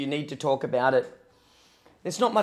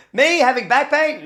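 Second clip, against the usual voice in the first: mock disbelief; 8 semitones higher, 7 dB louder than usual. Mock denial of back pain.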